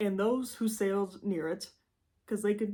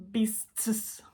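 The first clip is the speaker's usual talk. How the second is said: Michigan accent. Shown as a demonstration. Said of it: "Pardon my Midwestern Michigander accent".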